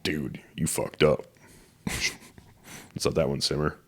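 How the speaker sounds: soft, slow aside to a friend; imagined muted reaction. Retold or imitated. Podcaster voicing Rogan privately judging a friend, hushed and slow. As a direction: quietly let it land, taking your time.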